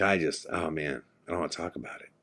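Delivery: low, soft, withdrawn voice; retold hushed refusal; shaken reluctance. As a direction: back away from the subject, voice dropping. Shaken friend refusing to retell nightmare.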